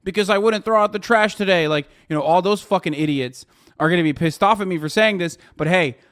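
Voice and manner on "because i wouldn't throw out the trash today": higher mocking whine of a sulky kid; lightly voiced mockery; mock whiny chatter. Streamer mocking gun-larp chatters, whiny.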